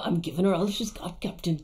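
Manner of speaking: Scotty-style Scottish burr, slightly low; tentative mock Scottish accent; attempted Scottish accent. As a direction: try a Scottish starship engineer. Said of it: "never tried to do that accent".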